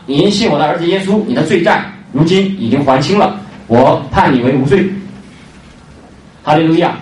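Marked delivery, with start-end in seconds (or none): 0.1-4.9 solemn verdict read. Retold or imitated. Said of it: "听好了".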